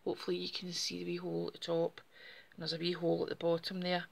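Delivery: slightly breathless talking; out of breath. Real, not acted. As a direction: speak a little short of breath. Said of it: "Sorry, I'm a bit breathless just now".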